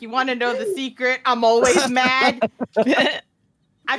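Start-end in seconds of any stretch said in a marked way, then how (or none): 0.0-2.4 lightly voiced brooding Hulk; Hulk quote. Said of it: "where the Hulk is like".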